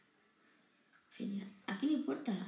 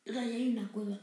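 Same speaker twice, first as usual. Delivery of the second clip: talking with hiccups; hiccuping between words; faster than usual. Real, not acted. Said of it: "tengo hipo".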